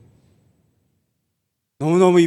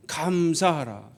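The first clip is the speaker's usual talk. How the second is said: soft command; 4 semitones lower, 6 dB quieter, slower than usual. Shown as a demonstration. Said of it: "계속 하는 거예요".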